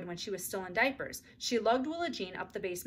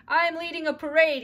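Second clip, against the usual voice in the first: proud; 8 semitones higher, 10 dB louder than usual. A narrator's reading. Boy announcing proudly.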